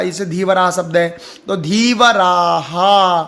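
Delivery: धीवराहा with the आ echoed as हा, slow; visarga echoing आ. Shown as a demonstration. Teacher models visarga after आ. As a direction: say धीवराहा slowly. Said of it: "आ है तो आ का".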